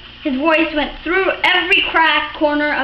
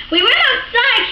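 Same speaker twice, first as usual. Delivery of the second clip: put-on higher, timid boy's voice; 9 semitones higher than usual. A narrator's reading. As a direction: answer like a nervous little boy. Boy answering stern father.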